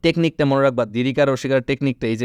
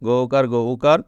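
slow spelling out; slower than usual. Shown as a demonstration. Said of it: "মনে রাখবা".

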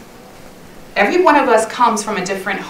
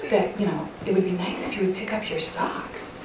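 pointed nagging; 7 dB quieter than usual. Retold or imitated. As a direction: imitate a wife claiming she asked nicely. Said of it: "that kind of is how I said it".

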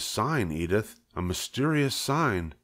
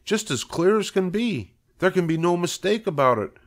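higher-pitched, building excitement; excited insistence; 6 semitones higher than usual. Acted. Husband telling wife of the miracle in the web, excitedly insistent. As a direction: proclaim the wonder and insist it is true.

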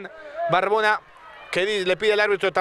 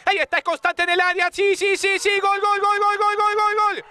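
goal scream; 9 semitones higher, 6 dB louder than usual. Real, not acted. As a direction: explode with joy on the goal. Goal scored, commentator erupts.

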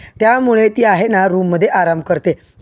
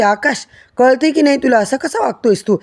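mild mock shout; 4 semitones higher than usual. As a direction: snap at the son in a raised, higher voice. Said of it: "Vallari मोठ्याने ओरडते".

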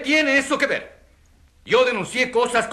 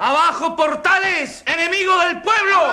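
heckling shout; 4 semitones higher than usual. Acted. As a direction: rouse the crowd against him. Witness heckles the accused.

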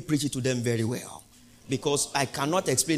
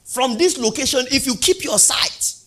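higher, louder proclamation; voice of God; 7 semitones higher, 5 dB louder than usual. Retold or imitated.

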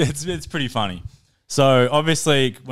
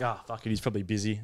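quiet mutter; 10 dB quieter, faster than usual. Retold or imitated. Muttering his thoughts after being ignored.

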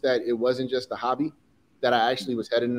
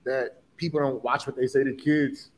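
getting emotional. Real, not acted. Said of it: "sorry for getting emotional".

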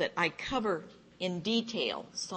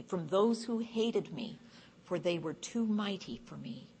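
scripture reading. Acted. Rescue verses read to the group, emphatic scripture reading. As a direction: read the rescue out line by line with weight. Reads the psalm aloud.

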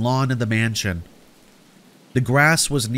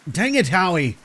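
higher, exasperated self-talk; muted exasperation; 7 semitones higher than usual. Acted. Narrator frets over runaway Howie, exasperated aside to self. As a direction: curse to yourself, pitched up. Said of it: "I whispered to myself".

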